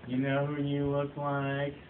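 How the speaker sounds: slow, lightly voiced drunk woman; boozed woman. Drunk lady to the man beside her, slow tipsy delivery. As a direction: draw it out like a tipsy barfly. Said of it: "She was boozed like you wouldn't believe".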